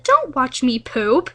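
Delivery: drawn out slow words; slow fish voice. Acted. The fish warning everyone, slow deadpan voice.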